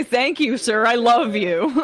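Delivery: simpering. Retold or imitated. Mocking Blanche's devotion again.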